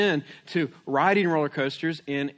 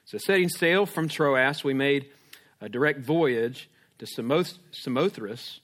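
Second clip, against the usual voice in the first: scripture reading; 3 semitones lower than usual. Acted. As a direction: read Acts to the congregation. Reads scripture aloud.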